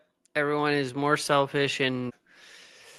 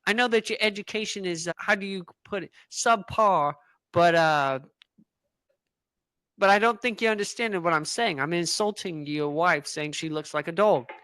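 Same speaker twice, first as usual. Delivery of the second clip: put-on British accent. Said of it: "are you British".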